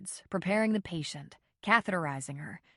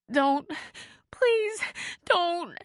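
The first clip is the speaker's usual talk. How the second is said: much higher, pleading and begging; sobbing plea; 11 semitones higher, 5 dB louder, much slower than usual. A narrator's reading. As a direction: beg in terror through sobs. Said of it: "she sobbed".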